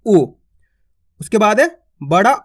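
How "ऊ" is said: ऊ kept short as a quick 'u'. Shown as a demonstration. Teacher showing the short u, brief. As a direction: clip ऊ off briefly. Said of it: "उच्चारण भी थोड़ा कम होता है".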